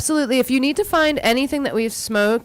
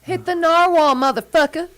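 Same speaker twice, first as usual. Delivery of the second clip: hyped shout; 9 semitones higher than usual. Acted. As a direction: pump him up to hit it. Hyped command to hit.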